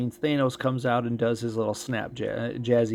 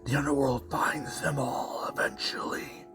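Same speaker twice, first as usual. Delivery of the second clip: eerie whisper; 2 semitones higher, 4 dB quieter than usual. Acted. Voices a game character.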